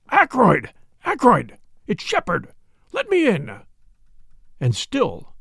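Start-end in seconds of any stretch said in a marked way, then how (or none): 0.1-3.6 high, urgent shout through a keyhole; bawling. A narrator's reading. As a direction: bawl his name, demand entry. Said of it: "fairly bawled through the keyhole".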